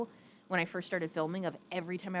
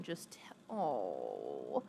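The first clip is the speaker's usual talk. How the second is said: overcome; 5 dB quieter, much slower than usual. Real, not acted. Overcome by husband story.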